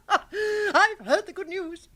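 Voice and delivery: gleeful, slow words through a laugh. Acted. Aunt laughing over the good news. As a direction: chuckle it out with delight.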